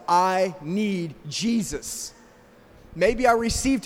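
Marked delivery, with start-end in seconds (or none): 0.1-2.1 sincere prayer. Shown as a demonstration. Preacher models the words for the congregation, slow and sincere. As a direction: breathe it out slowly as a heartfelt plea. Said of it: "you can say to yourself".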